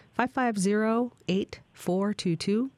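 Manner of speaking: digits spaced out, slow and clear; slow, deliberate number. Shown as a demonstration. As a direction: read each digit slowly for callers. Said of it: "repeats number slowly".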